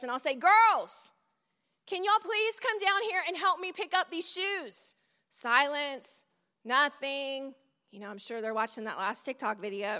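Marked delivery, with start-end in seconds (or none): 0.3-5.0 put-on a mild call of Girls up the stairs, with the rest of the line at normal level; calling upstairs. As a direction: call the girls down politely, only the first word raised. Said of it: "I will call out to the girls upstairs".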